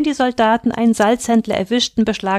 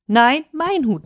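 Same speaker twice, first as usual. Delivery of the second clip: higher, mild narrated cry; geschrien; 6 semitones higher, slower than usual. A narrator's reading. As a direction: protest in a raised pitch. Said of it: "schrie Turfa". (höher, gemäßigt aufgeschrien)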